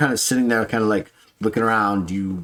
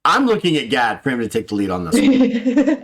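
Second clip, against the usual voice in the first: laughing; 5 semitones higher, 4 dB louder than usual. Real, not acted.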